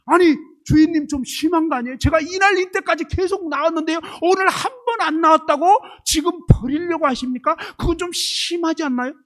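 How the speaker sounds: high, loud aggrieved complaint; indignant protesting pen. Acted. AI pen protests to its owner about being thrown out, indignant. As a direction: plead your case to the owner, affronted.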